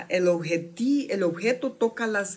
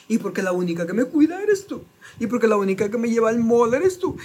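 higher guilt-tripping mother voice; manipulative mother; 5 semitones higher than usual. Retold or imitated. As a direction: lay the guilt on thick. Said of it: "se dejan llevar por las emociones de los padres".

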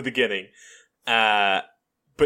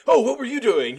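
mock innocent; 7 semitones higher than usual. Shown as a demonstration. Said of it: "He's not like".

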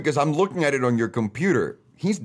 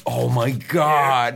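drooling Hummer; much slower than usual. Pretend. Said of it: "do you think Hummer right now is".

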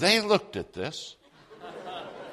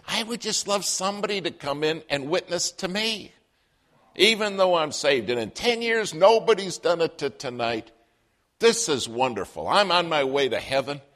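higher, bubbly retelling of her own wish; delighted clerk; 6 semitones higher, 3 dB louder than usual. Retold or imitated. Clerk telling the preacher her wish came true, high delighted voice. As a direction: let the joy lift the voice up high.

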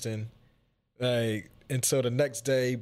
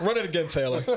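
laughing while speaking; amused through the words; 5 semitones higher than usual. Real, not acted. Laughing at a restart.

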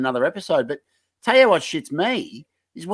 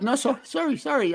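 imitating flustered man; 9 semitones higher, 5 dB quieter than usual. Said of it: "he's like".

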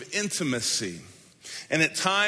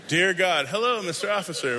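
stiff formal greeting; 3 semitones higher than usual. Shown as a demonstration. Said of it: "you say those at the same time".

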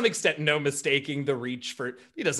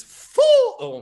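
a much higher, much louder burst; excited trumpeting blurt; 13 dB louder than usual. Acted. Bertrand counting the four arrivals, bursting out loud and high. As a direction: blast it out like an elephant trumpeting. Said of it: "he trumpets once more and says".

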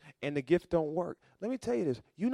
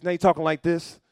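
mock worked up; 2 semitones higher, 6 dB louder than usual. Shown as a demonstration.

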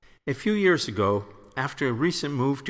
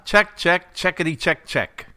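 louder, higher check; mild yell; 3 semitones higher, 4 dB louder than usual. Shown as a demonstration. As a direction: call the check out loud. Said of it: "you don't have to yell".

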